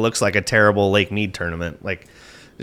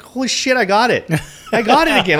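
much higher and rising in volume, thrilled; retold excitement; 11 semitones higher than usual. Angler telling a friend about hooking the giant bass, excited high-pitched rush. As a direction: squeal it like the big one is finally on.

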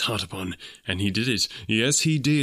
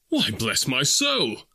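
startled cry; much slower than usual. Acted. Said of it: "cried Fred".

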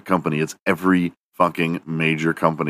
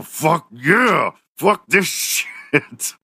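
pumped-up gym bro; 9 semitones higher, much slower than usual. Pretend.

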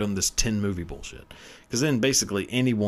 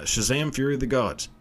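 "Shazam!" called out higher with a rising end; excited title call; 6 semitones higher than usual. Shown as a demonstration. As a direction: announce "Shazam!" like the hero shouting it.

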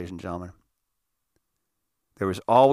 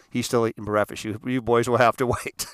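mom's answer at usual pitch, no shouting; lightly voiced mother. Mom telling boys to wait, lightly imitated matter-of-fact voice. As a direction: relay it lightly as the mother at the door.

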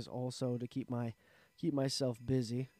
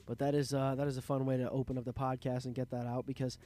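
stuffy nasal voice from a cold; sick nasal voice. Real, not acted. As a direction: talk through a sore, stuffed-up throat. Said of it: "now you know why I sound so strange".

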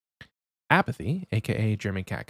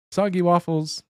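laughing through it, higher and louder; 8 semitones higher, 4 dB louder than usual. Acted. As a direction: crack up while saying the name. Rereads the name laughing.

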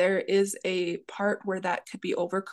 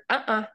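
neutral uh-uh; 2 semitones higher than usual. Shown as a demonstration. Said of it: "just like that".

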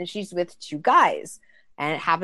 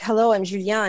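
put-on French accent; 3 semitones higher, 4 dB louder than usual. Trumpet player introduces himself, French accent. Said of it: "he says it with his accent".

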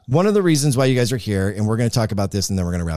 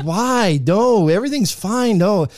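imitating the caller; 9 semitones higher, 4 dB louder than usual. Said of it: "And you're like".

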